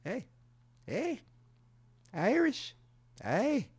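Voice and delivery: high, bouncy mock celebration; high playful hey, celebrating being Irish; playful cheer. Real, not acted.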